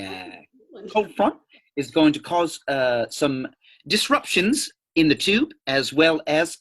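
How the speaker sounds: hammed-up British weatherman accent, lightly done; mock British accent. Forecasting a British snowstorm for the podcast host, in a mock British accent. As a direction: play a jolly British forecaster in a loose British accent. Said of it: "I'm gonna assume this is the U K".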